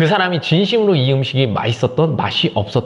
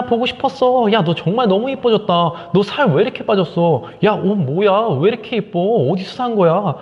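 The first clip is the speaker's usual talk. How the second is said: much higher, gushing compliments; women fussing; 6 semitones higher than usual. Retold or imitated. Friend showering a friend with compliments, squealing high. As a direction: gush over a friend's new look. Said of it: "호들갑을 떤다고".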